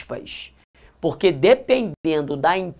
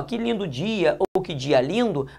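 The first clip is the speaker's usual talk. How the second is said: gentle exclamation; 5 dB quieter than usual. Shown as a demonstration. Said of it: "aqui há uma emoção".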